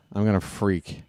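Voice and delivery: normal talking voice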